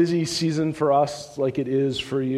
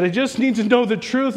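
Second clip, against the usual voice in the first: earnest plea; 8 semitones higher than usual. Retold or imitated. Man pleads before Jesus.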